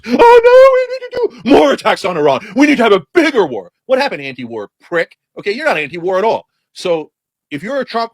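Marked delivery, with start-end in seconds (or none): 0.0-3.7 higher, louder mock panic; mock scream. Mocking leaders demanding a bigger war, louder. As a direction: cry out for more war. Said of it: "scream at the top of their lungs".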